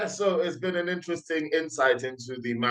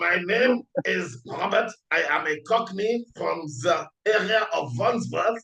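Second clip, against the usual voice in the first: higher, slow hammed-up Cockney; mock Cockney accent; 6 semitones higher than usual. Co-host joining the joke, mock Cockney accent. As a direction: fake Cockney introduction. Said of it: "try to talk like a British person".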